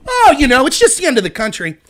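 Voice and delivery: sarcastic shrug with swooping pitch; exaggerated who-cares act; mocking indifference. Mocking people who shrug off lockdowns.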